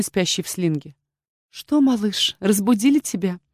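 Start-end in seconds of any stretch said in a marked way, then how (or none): 1.5-3.4 put-on mother coos over her baby; cooing to a baby. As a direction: coo gently to the waking baby. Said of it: "заворковала я с ребёнком".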